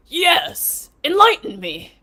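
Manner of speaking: put-on high, breezy California Valley girl. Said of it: "I said that really weird, like a California Valley girl".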